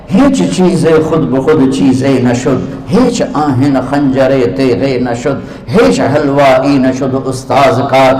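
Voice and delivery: slow, measured verse recital; poem recitation. Acted. Preacher recites a Persian poem to the audience, slowly and measured. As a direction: recite the Persian couplets slowly, savouring each line.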